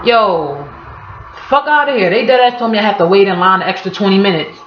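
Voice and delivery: can't believe what you just heard; hammed-up New Yorker in disbelief over a long line; incredulous. Shown as a demonstration. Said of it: "you can be like".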